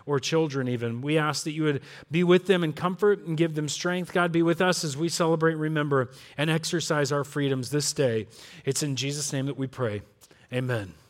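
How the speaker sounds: low, soft praying voice; prayer. Real, not acted. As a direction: lead a congregation in quiet prayer. Leads a prayer.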